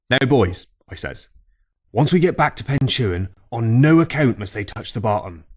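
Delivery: put-on old Cornish fisherman. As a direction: bellow it like an old salt telling a tall tale in the pub. Tale told as old fisherman.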